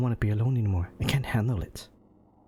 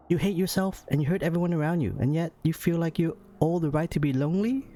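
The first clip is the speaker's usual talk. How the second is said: cruel date; 5 semitones higher than usual. Acted. Reads date's cruel lines.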